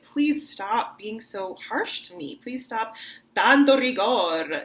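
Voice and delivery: slow, begging plea; pleading. Shown as a demonstration. Teacher voices the plea to a harsh lover, slow. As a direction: drag out the plea. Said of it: "that you're like".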